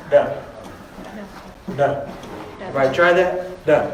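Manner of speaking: Duh with a quick tongue tap; alveolar tap. Shown as a demonstration. Teacher drilling the tap sound with students. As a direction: flick the tongue on the roof, Duh. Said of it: "tip of the tongue is hitting the roof".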